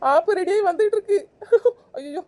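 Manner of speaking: hammed-up fake sobbing; mock crying. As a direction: wail it like a comic lament. Wails about mother-in-law. (கேலியான போலி அழுகை)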